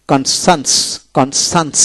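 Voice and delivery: কনসান্স said as two joined syllables, kon-sans; model pronunciation. Shown as a demonstration. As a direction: demonstrate কনসান্স for learners. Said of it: "এভাবে উচ্চারিত হবে".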